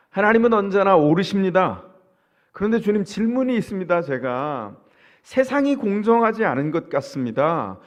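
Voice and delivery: Jeremiah's questioning prayer. Retold or imitated. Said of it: "이렇게 질문하고 있어요".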